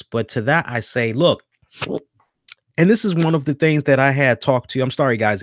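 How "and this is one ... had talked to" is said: talking through hiccups; hiccuping. Real, not acted. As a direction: hiccups from the beer breaking in. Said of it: "if I'm hiccuping".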